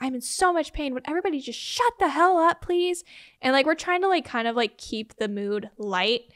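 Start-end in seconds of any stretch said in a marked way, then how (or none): 0.0-3.0 acted exasperated shout, high and pained. Retelling how a woman in pain yelled at everyone in the room, retelling a yell. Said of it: "she's yelling at everybody".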